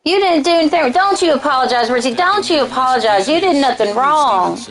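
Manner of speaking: light country-accented mock reassurance. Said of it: "I can do it with a country accent".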